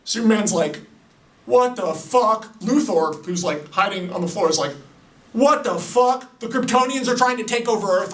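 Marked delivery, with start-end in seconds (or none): 1.5-2.6 higher and very slow; stunned. Retold or imitated. Superman stunned by the punch, slow and high. 5.3-8.1 higher, fast and jittery; a lightly played frantic Luthor; mock panic. Luthor hiding on the floor, panicking high and fast.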